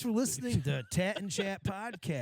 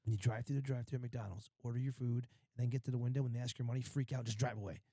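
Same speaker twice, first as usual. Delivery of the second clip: mock scheming advice; 5 semitones lower, 5 dB quieter, faster than usual. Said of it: "She'll be like".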